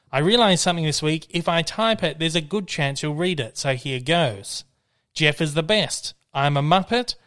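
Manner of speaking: lively, measured read-out; email read aloud. Acted. Podcast host reading a fan's joke email to listeners, lively read-aloud. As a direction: read each phrase out for the audience.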